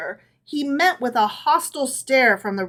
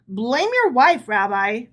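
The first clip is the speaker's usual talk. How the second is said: urging; 4 dB louder than usual. Acted. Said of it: "urged Herschel".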